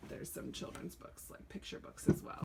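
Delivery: soft unvoiced whisper. Real, not acted. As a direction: breathe the words, no voice. Drops to a whisper at shelf.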